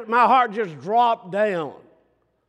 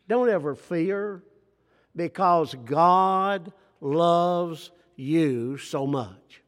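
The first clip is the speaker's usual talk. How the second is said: tender assurance; slower than usual. Acted.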